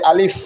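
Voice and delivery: "আলিফ" with a long audible final f; standalone alif. Shown as a demonstration. Teacher pronouncing a single alif, "আলিফ" with drawn-out f. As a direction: say "আলিফ" fully, letting the f hiss out. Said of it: "single আলিফ উচ্চারণ করতে".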